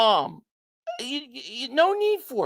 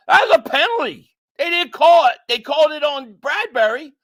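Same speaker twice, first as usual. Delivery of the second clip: louder, higher outrage at the no-call; angry outburst; 4 semitones higher, 6 dB louder than usual. Real, not acted. Fan fuming at the referees over pass interference, angry. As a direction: vent at the referees.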